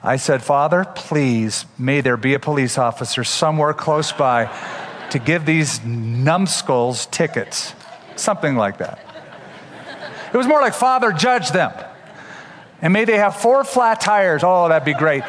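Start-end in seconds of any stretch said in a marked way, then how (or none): 0.4-7.8 mock prayer. Mock prayer at reckless truckers. 10.7-14.4 higher, chuckling mock prayer for revenge; laughing mock prayer. Pastor jokingly praying revenge on truckers, laughing.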